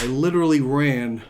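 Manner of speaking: breathless, recovering after a sprint; winded, still catching breath. Real, not acted. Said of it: "now I'm just catching my breath".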